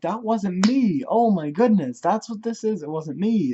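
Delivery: high, loud retold protest of innocence; exasperated protest. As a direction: protest the mix-up as it dawns on you.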